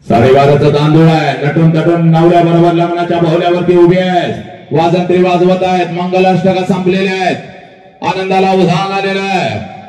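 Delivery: sustained, chant-like orator's delivery; impassioned preaching. Acted. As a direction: declaim the wedding scene in one unbroken, insistent stream. Emotional oratory about a wedding.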